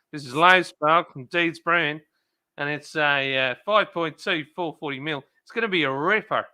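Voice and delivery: mock Australian beer announcer accent. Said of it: "I'll do it in my best Australian accent".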